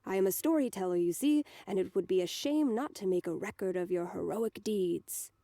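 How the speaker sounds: lightly voiced bard with a German accent; a storyteller's pompous praise in a slight German accent; Osana voice. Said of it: "he says in his Osana voice".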